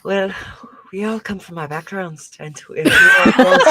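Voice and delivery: bad Irish accent. Duke consoling Callie, in a bad Irish accent. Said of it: "That's the worst Irish accent I have to date".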